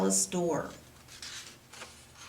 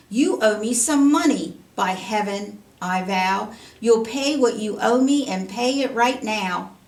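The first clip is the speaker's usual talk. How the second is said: angry threat; 5 dB louder than usual. Acted. Servant threatens poor man.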